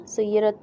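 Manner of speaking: "सुय्यिरत" with the last t sliding into an s; final t hissing. Shown as a demonstration. Teacher showing the mistake, final t becoming an s sound. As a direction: let too much air turn the end of "सुय्यिरत" into s. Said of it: "स की आवाज़ हो जाएगी".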